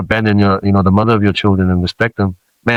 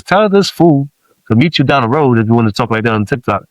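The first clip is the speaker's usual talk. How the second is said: cocky ego; 3 semitones higher than usual. Retold or imitated. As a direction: call someone out as your puffed-up ego. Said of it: "when my ego steps in and goes".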